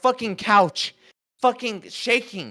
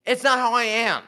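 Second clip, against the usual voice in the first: emphatic shout. Real, not acted. Insists on his character.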